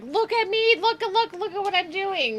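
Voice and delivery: high-pitched nagging child imitation; imitating kids. Parent mimicking kids demanding to be watched, high kid voice. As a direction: pipe up like an attention-seeking kid. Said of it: "our kids ... they're always like".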